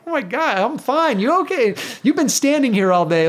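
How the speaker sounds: high-pitched, animated back-and-forth fussing; retold worried protest. Retelling mutual fussing at finish line.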